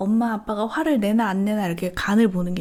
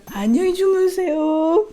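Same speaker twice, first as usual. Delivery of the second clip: put-on higher, louder, slow little-kid voice; confused child; 8 semitones higher, 4 dB louder, slower than usual. Mom imitating her son's wrong goodnight. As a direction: chirp it like a muddled toddler.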